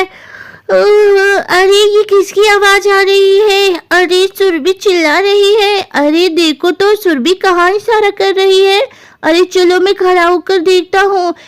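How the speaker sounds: put-on a touch of a puzzled boy just woken; lightly voiced Guddu. Guddu wakes to Surbhi's cries, lightly puzzled. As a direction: lightly act a child wondering at a noise.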